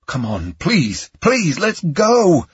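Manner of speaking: drawn-out begging, rising to a high shout; urgent plea that builds into a yell; desperate pleading. A narrator's reading. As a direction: beg her to run. Begging her to flee from gunfire.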